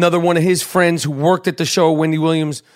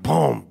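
low quiet imitated thump; muffled bass boom; 5 semitones lower, 4 dB quieter than usual. Hearing nineties music downstairs, quiet bass boom imitation. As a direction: copy the bass leaking up from below. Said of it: "I'm just hearing, like".

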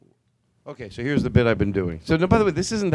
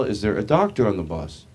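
projected, announced appeal to passengers; imitated driver's announcement; bus driver on PA; 6 semitones lower than usual. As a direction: ask the whole bus over the PA. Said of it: "the bus driver gets on the P A system".

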